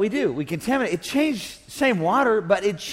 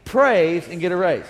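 shouted slogan; slower than usual. Shown as a demonstration. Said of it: "Let's all shout that together".

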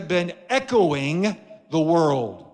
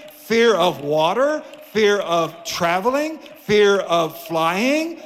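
rhythmic, slow roll call, rising on each item; mounting preaching cadence, each phrase stretched; building preacher's list. Real, not acted. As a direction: build in force item by item to a firm close.

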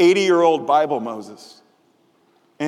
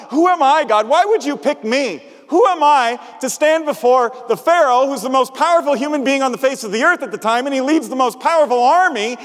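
protesting cry; 4 semitones higher than usual. Retold or imitated. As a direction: throw the question at God in disbelief. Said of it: "Moses could say".

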